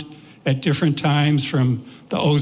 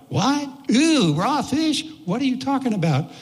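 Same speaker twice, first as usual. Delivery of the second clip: disgusted disbelief; 8 semitones higher than usual. Retold or imitated. Group reacting to sushi explanation.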